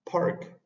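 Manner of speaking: park breathed out, no voice; air-only park with a strong puff on the p; whispered park. Shown as a demonstration. Teacher whispering park to show the aspiration. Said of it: "Entonces sería park".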